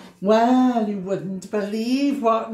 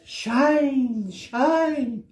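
sunny voice; 5 semitones higher, 3 dB louder than usual. Acted. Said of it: "went the sun".

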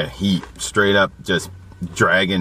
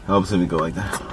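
talking with tongue out; tongue hanging out; 5 semitones lower, 4 dB quieter than usual. Real, not acted. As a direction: mouth open, tongue out. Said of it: "with my tongue hanging out".

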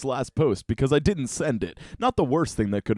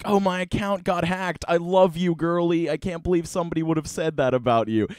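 higher, sugary fake-friendly tone; fake sweetness; 6 semitones higher than usual. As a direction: play innocent and gushing. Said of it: "tried to play it off being like".

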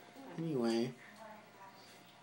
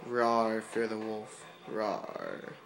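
mock wolf; 3 semitones lower, 3 dB quieter, much slower than usual. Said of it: "Something like that".

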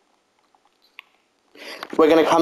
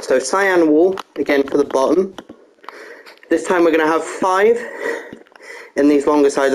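out of breath. Real, not acted. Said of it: "I'm sorry I'm out of breath".

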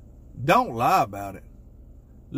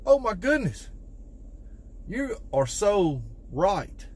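amazed wife; 5 semitones higher, 3 dB quieter than usual. Retold or imitated. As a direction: play the wife suddenly seeing the light. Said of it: "She can be like".

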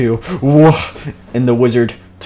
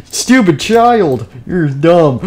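mock scolding; 5 semitones higher, 5 dB louder, much slower than usual. Teacher figure insults children.

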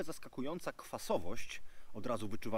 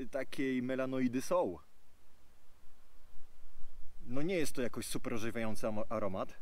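speaking over raised drinking glass; talking with glass at mouth; 4 dB louder than usual. Real, not acted. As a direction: voice partly into glass rim. Seen 0: Glass held at chin, then raised to nose while talking.

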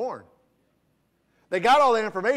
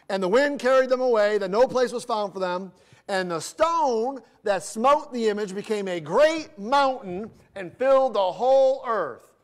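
scripture reading; 3 semitones higher than usual. Acted. Reads scripture verse.

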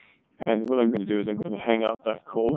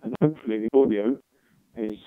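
laptop mic. Real, not acted. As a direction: voice through the laptop call. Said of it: "So now I'm talking into the laptop".

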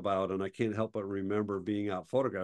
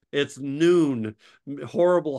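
incredulous protest; 3 semitones higher, 7 dB louder, slower than usual. Retold or imitated. Friend objecting to harsh light.

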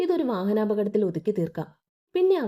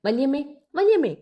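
calling out; 4 semitones higher, 3 dB louder than usual. A narrator's reading. Girl calling aunt over TV.

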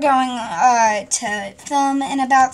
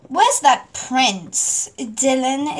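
very slow, flat delivery; flat queen line; much slower than usual. Acted. Queen asking for the prince, flat. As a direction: say it without emotion. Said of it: "Way more emotion".

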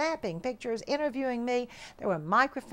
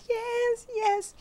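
eager yes; 11 semitones higher than usual. Retold or imitated. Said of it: "And I said".

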